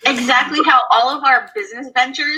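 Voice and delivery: delayed playback of her own voice; audio echo. Real, not acted. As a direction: her voice echoing back from the stream. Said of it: "Oh, that's my voice".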